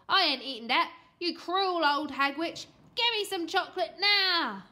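put-on loud, bratty boy's rant; angry outburst. A narrator's reading. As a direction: hurl insults like a spoilt child.

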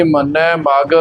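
ਮਗ said slowly with a light single g; soft pronunciation. Shown as a demonstration. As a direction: keep ਮਗ loose, g undoubled. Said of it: "ਉਚਾਰਨ ਵੀ ਪੋਲਾ ਹੀ ਕਰਨਾ".

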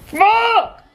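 loud, high burst of a curse; frustrated outburst. Real, not acted. Venting over cut-off hair.

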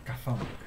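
"Chthonic" said as "ka-THON-ik"; silent-H pronunciation. Shown as a demonstration. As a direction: open "Chthonic" on a plain k sound, then "thonic". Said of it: "το H είναι διακοσμητικό". («καθόνικ» για το "Chthonic", χωρίς H)

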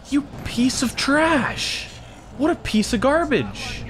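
high, drawn-out insult; mock outrage. Player insulting a game character, high mock outrage. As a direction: stretch it out in high-pitched indignation.

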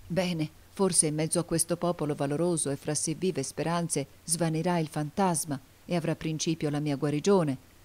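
ordinary delivery

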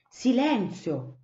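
slow commanding Silenzio; stern order. Acted. Cipì to the chattering flock, a slow stern hush. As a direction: hush them with authority. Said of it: "ordinò Cipì".

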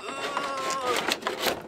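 drawn-out effortful "ugh"; long strained groan. Real, not acted. Host heaving a big miniature, long groan.

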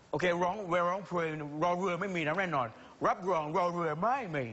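"รอเรือ" with a heavy, exaggerated rolled r; overdone rolled r. Shown as a demonstration. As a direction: roll the r in "รอเรือ" hard, like a foreign-trained singer. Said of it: "อันนี้รอเรือ รอเรือ อะไรนี่เป็นตัวอย่าง". (ออกเสียง "รอเรือ" รัวลิ้นหนักเกินจริง)

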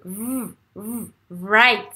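"right" after revving its R; closed-mouth R. Shown as a demonstration. Teacher isolating the R, "right" out of a revved start. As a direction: hold a closed buzzing R into "right". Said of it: "La bouche est fermée".

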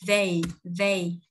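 "They" with E gliding into I; voiced TH, then E linked up into I in "they"; carefully modelled "They"; linked diphthong. Shown as a demonstration. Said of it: "Nhớ là E, Y nối qua".

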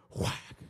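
loud "whack" like a slap; abrupt spoken sound effect; sudden smack. Retold or imitated. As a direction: burst it out as a smack from heaven. God's slap imitated.

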